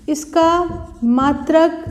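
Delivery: halting, piece-by-piece dictation; writing-pace dictation. Real, not acted. Teacher repeats the point for students to note, halting dictation. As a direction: pause after every word or two for note-takers.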